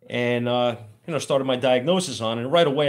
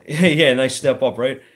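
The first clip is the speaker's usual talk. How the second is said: loud laughing yeah, wry; laughing at being thrown on diesels; laughing sarcasm; 7 dB louder, slower than usual. Real, not acted. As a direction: laugh at the irony of it.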